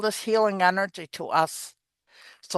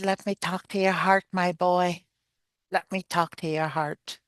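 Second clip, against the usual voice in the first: tender. Retold or imitated. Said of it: "I said".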